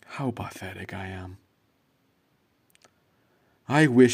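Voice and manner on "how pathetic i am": whispered to himself; self-pitying whisper. Acted. Heartbroken man alone at night, self-pitying whisper. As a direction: breathe the words in shame.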